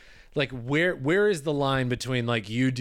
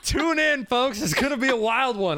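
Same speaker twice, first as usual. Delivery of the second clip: put-on high, booming old-time radio host; radio announcer voice; 10 semitones higher than usual. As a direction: announce it like a vintage radio show. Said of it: "like old radio announcer voice".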